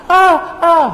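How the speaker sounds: high startled yelp; mock fright. Preacher imitating someone fleeing a cockroach, mock fright. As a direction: play a comic scare at a cockroach.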